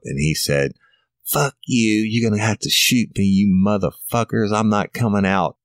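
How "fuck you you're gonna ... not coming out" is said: defiant yell. Retold or imitated. Suspect defiant from the closet.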